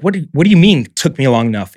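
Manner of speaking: mock-indignant demand; angry retort. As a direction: replay an incredulous, mildly angry challenge. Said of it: "I was so angry".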